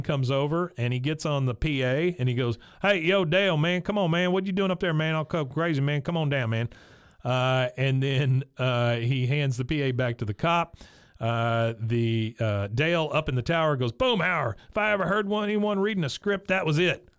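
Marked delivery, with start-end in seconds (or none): 2.8-6.7 Boomhauer on the PA. Retold or imitated. 13.9-17.1 Dale mocking.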